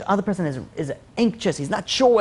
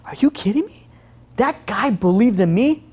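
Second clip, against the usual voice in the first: acted disbelief; 4 semitones higher than usual. Acted man stunned by the check.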